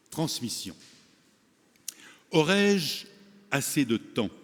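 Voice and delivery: measured recital in short phrases with deliberate pauses; poem recitation. Acted. Retiree reciting a poem to forum audience, measured poem recitation. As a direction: recite it line by line, letting each phrase settle.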